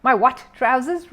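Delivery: slow, loud, incredulous; indignant repeat. A narrator's reading. Neighbour repeating the words back, indignant. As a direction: repeat it in angry disbelief.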